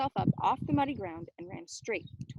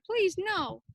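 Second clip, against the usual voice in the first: terrified plea; 9 semitones higher, 7 dB louder than usual. Acted.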